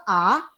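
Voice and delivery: A held level; even, unbending A; first tone. Shown as a demonstration. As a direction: keep A on one steady pitch. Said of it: "yang pertama".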